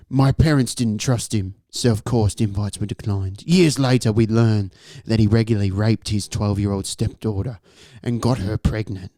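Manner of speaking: measured, low-key story narration; story reading. A narrator's reading. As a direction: read the creepy tale straight, with pauses. Resumes reading the story aloud.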